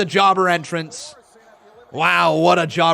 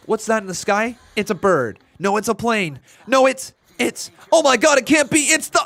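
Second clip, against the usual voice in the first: hammed-up suspense, climbing higher and louder; really loud read-out; 6 semitones higher, 4 dB louder than usual. Streamer reading a donor's message out really loud, building up. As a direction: build from a question to a high, loud cry. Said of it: "trying to read that out really loud".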